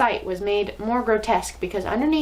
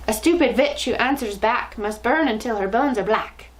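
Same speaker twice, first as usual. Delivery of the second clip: chilling voice. Acted. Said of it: "a voice that made my blood run cold".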